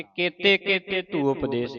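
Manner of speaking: ਕੇਤੇ ਕੇਤੇ read as one unit with no break; run together. Shown as a demonstration. Teacher imitates students reading it run together. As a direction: demo the wrong way: ਕੇਤੇ ਕੇਤੇ joined with no pause. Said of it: "ਇਹ ਇਕੱਠੇ ਪੜ੍ਹ ਜਾਂਦੇ ਦੋ ਵਾਰੀ".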